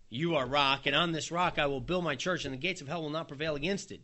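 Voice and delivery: a ringing promise; declaring. Acted. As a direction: announce it boldly to Peter. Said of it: "You know".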